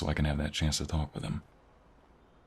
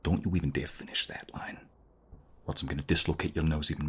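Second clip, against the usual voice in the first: whispered threat. Acted. Threatening the robber.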